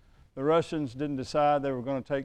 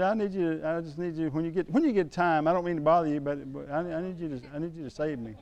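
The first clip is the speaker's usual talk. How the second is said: hesitant. Retold or imitated. Neighbour repeating his plea to be saved, lightly hesitant. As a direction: keep restarting the request, apologetically.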